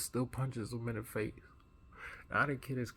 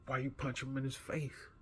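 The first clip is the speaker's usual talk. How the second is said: confronting question; 4 semitones higher, 4 dB quieter than usual. Retold or imitated. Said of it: "I'm furious".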